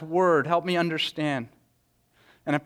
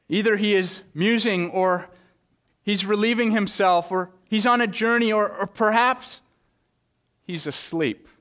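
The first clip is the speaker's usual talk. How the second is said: mocking taunt; 3 semitones higher than usual. Elijah taunting the prophets of Baal, mocking. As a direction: taunt them to shout for their god. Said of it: "Elijah mocked them".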